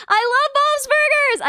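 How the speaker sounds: high, slow gushing; excited gasp. Real, not acted. Streamer gushing back to chat about Bob's Burgers. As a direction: gasp and gush with delight.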